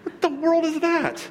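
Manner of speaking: put-on high, slow, laughing disbelief at a kid's fishing pole; amused disbelief. Preacher handed a tiny kid pole, laughing surprise. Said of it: "But I'm like".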